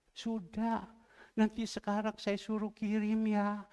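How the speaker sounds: gently calm her down; comforting. Retold or imitated. Comforting the crying widow.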